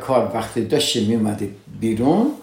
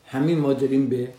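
normal talking voice

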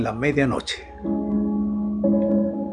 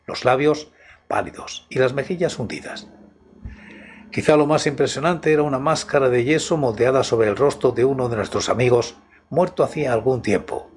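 story narration. Acted. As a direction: set a midnight horror mood. Reads a horror story aloud.

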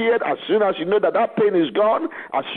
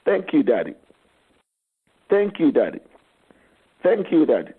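tender thanks; 5 semitones lower than usual. Real, not acted. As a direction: thank him gently and low. Intimate thanks to God.

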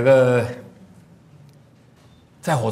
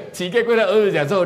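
livelier retelling; 7 semitones higher, 6 dB louder, faster than usual. Shown as a demonstration.

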